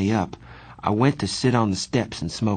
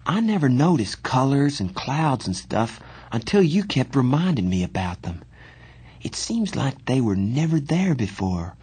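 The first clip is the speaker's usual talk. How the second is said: slightly higher youthful character voice, musing; lightly voiced Johnny, thoughtful; 4 semitones higher than usual. Johnny telling his friend about noticing clouds, musing. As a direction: muse aloud with lifted pitch.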